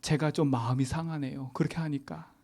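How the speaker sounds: restrained, courteous quoted email; polite complaint. Retold or imitated. Pastor quoting his reply to a curt colleague, politely. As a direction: voice a hurt message politely, without force. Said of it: "공손히 썼어요".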